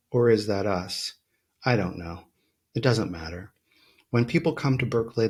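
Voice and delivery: measured, deliberate poetry recital; poem reading. Acted. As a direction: let lines fall, with pauses between. Reads a poem aloud.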